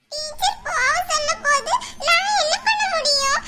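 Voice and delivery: breaking into tears while pleading; tearful. Acted. Girl scolded by both, protesting through tears. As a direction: defend yourself through sobs. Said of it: "இப்ப எதுக்கு அழுவுற நீ?".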